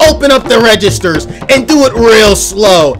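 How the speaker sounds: a lightly voiced stick-up man; robber giving orders. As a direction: order it like an armed robber, slowing at the end.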